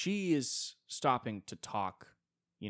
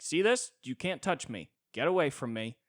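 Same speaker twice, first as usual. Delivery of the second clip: loud, higher haughty flex; mock rich snob warding people off; arrogant rich snob; 7 semitones higher, 7 dB louder than usual. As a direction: flash the badge and sneer. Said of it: "you're like".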